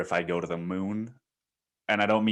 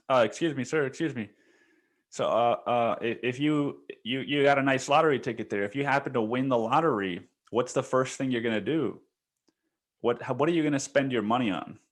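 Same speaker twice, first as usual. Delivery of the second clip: higher, eager reporter voice, lightly done; imitating a reporter; 5 semitones higher than usual. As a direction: play a pushy street reporter, a touch higher. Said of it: "a reporter walks up and she's like".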